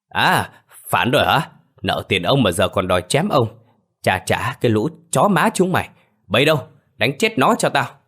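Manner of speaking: shouts high and loud, scornful; loud sneering shout. Acted. Landlord hiding behind a servant, yelling orders loudly. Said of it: "miệng vẫn lớn tiếng".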